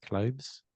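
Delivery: clothes with a V for the th; London V in clothes. Shown as a demonstration. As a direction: say clothes as kloʊvz, London style. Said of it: "like, a V".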